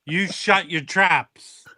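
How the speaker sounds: slow, drawn-out mock order; mock command. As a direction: lay down the law in measured, deliberate words. Mock-commanding a co-host to be silent.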